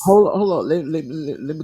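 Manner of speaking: high, loud cut-in; urgent interjection. Real, not acted. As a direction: jump in to stop the other speaker. Cutting in to correct her.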